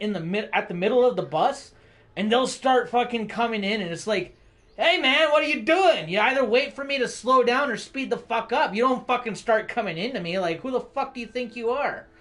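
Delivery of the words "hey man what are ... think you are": retold yelling at bus driver. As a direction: chew out the bus driver, mock-furious.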